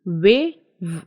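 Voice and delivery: "वे" with rounded lips, then "व" with vibration; rounded-lip "वे" against buzzing "व"; contrasting व sounds. Shown as a demonstration. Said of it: "आपको समझ I think आ रहा है". (होंठ गोल करके "वे", फिर कंपन वाला "व")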